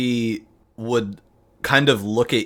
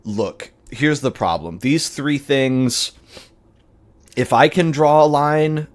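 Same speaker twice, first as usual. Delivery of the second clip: firm warning; 5 semitones higher, 4 dB louder than usual. Acted. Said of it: "He's just like".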